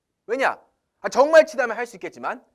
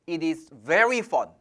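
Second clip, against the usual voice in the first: slow example; 3 semitones lower, much slower than usual. Shown as a demonstration. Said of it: "저도 처음에 영어 할 때".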